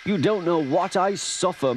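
hammed-up complaining invalid; moaning. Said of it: "moaned Henry".

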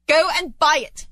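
high, excited order; eager command. Acted. Scrooge sends the boy to buy turkey, excited.

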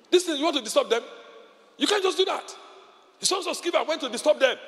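fired-up preaching. Real, not acted. Preaching at full force.

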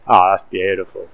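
put-on loud, gushing Australian old lady saying beautiful; delighted old Aussie lady. An old Australian lady gushing over her fish in a Chinese restaurant, in a loud, delighted Australian voice. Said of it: "this old lady is just like".

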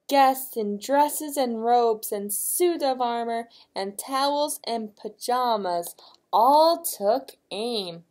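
expressive picture-book reading; story narration. A narrator's reading. Reading to a child as guests take aim, expressive narration. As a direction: read it out for a small listener.

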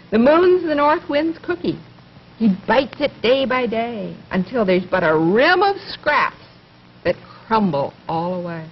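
lively rhythmic poem reading; poem for children. Acted. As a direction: read each line with a gentle bounce for a child.

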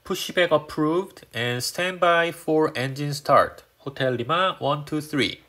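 very slow, deliberate pilot readback; radio readback. Shown as a demonstration. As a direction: read it back like a pilot on the radio, word by word. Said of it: "이렇게 대답해 주시면 됩니다".

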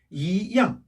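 "이" rising in second tone before a strong "양"; weak rising "이", strong falling "양". Shown as a demonstration. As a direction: say "이" rising, then drop firmly on "양". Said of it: "약강".

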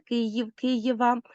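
Київ, Києва drawn out slowly to show ї becoming є; slow demo of Київ, Києва. Shown as a demonstration. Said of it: "чергування «ї» на «є»".

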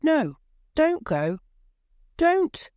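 loud, rising desperate plea; desperate cry. A narrator's reading. Husband begs wife not to open, loud and desperate. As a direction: beg her not to go. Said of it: "her husband cried again".

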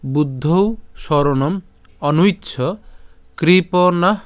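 slow, drawn-out chanting of the verse; slow Sanskrit recitation. Shown as a demonstration. Teacher reciting the Sanskrit verse to students, slow and chanted. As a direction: recite each word slowly and evenly. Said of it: "তো আজকের শ্লোকটি হলো".

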